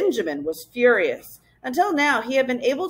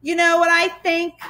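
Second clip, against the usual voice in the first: put-on higher indignant child's shout; 8 semitones higher than usual. A narrator's reading. Girl stepping forward to confront bullies, shouting. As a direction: challenge them, voice pitched up. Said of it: "she shouted".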